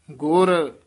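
ਗੁਰ said alone, with a small pause before ਮੇਲ; short pause after ਗੁਰ. Shown as a demonstration. Teacher warns against saying ਗੁਰਮੇਲ, short pause. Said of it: "ਇੱਥੇ ਵੀ ਥੋੜ੍ਹਾ ਜਿਹਾ ਠਹਿਰਾ".

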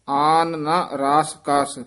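ਆਨ ਨਾ said as separate words; words kept separate. Shown as a demonstration. Teacher showing word separation in the line. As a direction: keep ਆਨ apart from ਨਾ. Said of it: "ਵੱਖਰਾ ਹੀ ਕਰਨਾ ਹੈ".

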